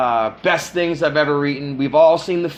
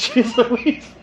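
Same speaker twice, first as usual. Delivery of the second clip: put-on old southern gentleman; 8 semitones higher than usual. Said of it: "I talk like an old Southern man".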